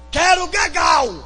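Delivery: put-on high, cross child's demand; whining child. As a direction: whine like a toddler refusing sleep. Child voiced whining at bedtime. (criança birrenta, voz aguda)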